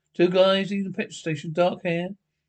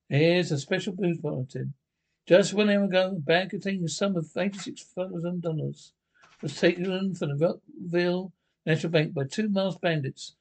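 put-on old radio announcer. Radio news bulletin read.

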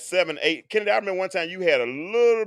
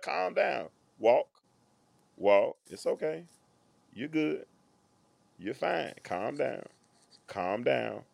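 calming voice; 2 semitones lower, 7 dB quieter, slower than usual. Retold or imitated. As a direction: settle a crying child gently. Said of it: "that calming voice".

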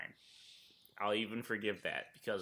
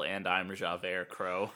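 slow joke intro; 2 semitones lower, much slower than usual. Pretend. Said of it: "Thank you, Russell".

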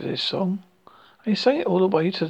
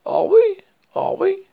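high excited repeated question; eager rabbit asking twice; 13 semitones higher, 6 dB louder than usual. Acted.

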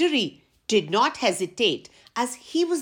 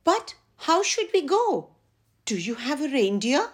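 put-on high childlike voice; 6 semitones higher than usual. A narrator's reading. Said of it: "asked letter E".

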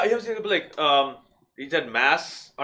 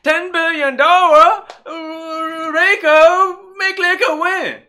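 much higher, louder, slow put-on Chinese accent; mock Chinese accent; 12 dB louder, slower than usual. Asked to show his Chinese accent, high loud mock Chinese accent. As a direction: ham up a cartoon Chinese accent. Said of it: "let's hear your Chinese accent".

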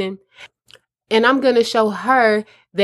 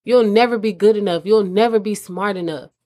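belittling, lightly mocking tone; talking down. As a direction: sneer it down at her. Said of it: "in a manner that's letting me know".

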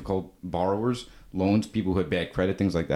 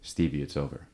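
broken, defeated; 6 semitones lower, 4 dB quieter than usual. Retold or imitated. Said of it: "he was broken".

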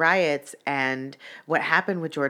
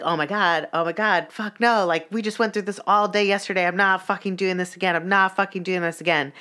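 mildly worked-up retold protest; fed-up, insistent replay of refusing; exasperated refusal; 3 semitones higher than usual. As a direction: dig your heels in, pitch lifting. Retold refusal at the broken car.

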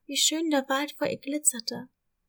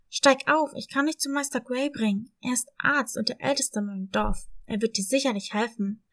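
put-on a friendly young dog, eager to help; lightly voiced helpful dog; kind puppy voice; 3 dB louder than usual. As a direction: offer the ride like a helpful puppy. Dog Boss offers help.

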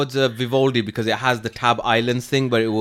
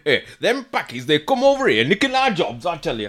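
Yorkshire accent; 2 semitones higher than usual. Shown as a demonstration. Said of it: "I can only say that in a Yorkshire accent".

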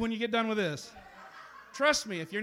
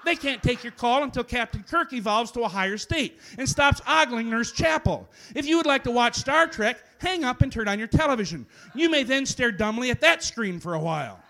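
loud phone menu voice; 3 semitones higher, 5 dB louder than usual. Acted. Phone menu voice grows louder.

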